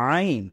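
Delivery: throaty আইন pressed from within; Arabic ain. Shown as a demonstration. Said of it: "গলার ভিতর থেকে আনতে হয়". (গলা থেকে চাপ দিয়ে আইন)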